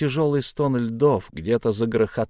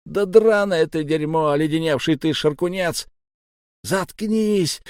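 high, raised, cursing voice; exploding in anger; 6 semitones higher, 3 dB louder than usual. A narrator's reading. Sablya losing patience with his insistent comrade, exploding. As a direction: curse him out, ending on a high command.

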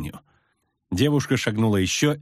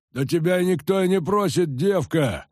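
shouting; 8 semitones higher than usual. A narrator's reading. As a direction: shout her down. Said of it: "крикнул мужик".

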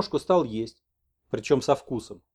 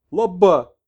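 higher, loud; excited shaman; 6 semitones higher, 9 dB louder than usual. Acted. Messenger joyfully confirms to the old man, loud. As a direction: cry it joyfully.

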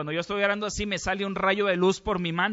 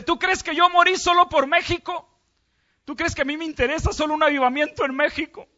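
loud, high anguished rebuke through tears; Jesus crying to the preacher, loud high wounded voice; weeping Jesus; 8 semitones higher, 9 dB louder than usual. A narrator's reading. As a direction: cry out the reproach like a grieving Jesus. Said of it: "Jesús empezó a llorar".

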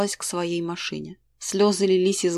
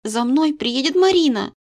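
put-on higher, louder cross girl repeating herself; angry repeat; 6 semitones higher, 5 dB louder than usual. A narrator's reading. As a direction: she is fed up saying it twice. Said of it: "повторила дочь сердито". (дочь сердито повторяет матери, громче и выше)

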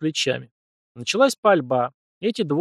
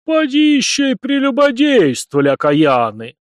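much higher, louder scandalised accusation; accusing priest; 11 semitones higher, 7 dB louder than usual. Acted. Priest accusing his pupils of sin: high, loud and scandalised. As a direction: hurl the accusation like a shocked priest.

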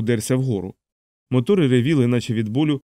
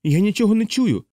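high, guileless yelled reply; bellowed simple Aarfy; 9 semitones higher than usual. A narrator's reading. Aarfy to Yossarian, a high guileless bellow. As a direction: naive shout over the engines. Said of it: "простодушно загорлав той".

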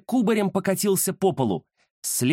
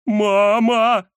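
loud, high yelp of fright; frightened cry; 7 semitones higher, 6 dB louder than usual. Acted. Nafanya sees the real ghost, panicked yell. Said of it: "взволнованно крикнул Нафаня".

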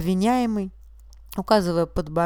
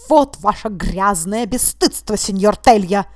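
much louder, furious outburst; judge's voice cracking with fury; 8 dB louder than usual. A narrator's reading. Judge accusing the witness, louder with fury. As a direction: rage breaking through the words. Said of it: "Голос у судьи сорвался от ярости".

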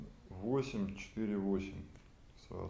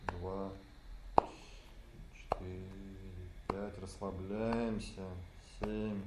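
slow breath counting; 2 semitones lower, 5 dB quieter, slower than usual. Shown as a demonstration. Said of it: "leads breath count".

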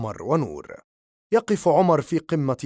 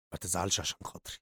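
gentle comfort; 8 semitones lower, 13 dB quieter, much faster than usual. A narrator's reading. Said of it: "وربت على كتفه قائلًا".

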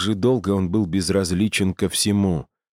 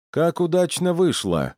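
mild calling after; 11 semitones higher than usual. A narrator's reading. Guard to Torin as he walks off, mildly calling after. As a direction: lightly call out after someone, pitched well up. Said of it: "крикнул ему вслед стражник".

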